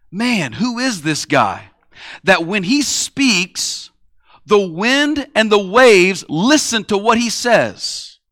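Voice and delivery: marvel, stretching every word; awestruck wonder. Retold or imitated. Disciples marvel after the storm.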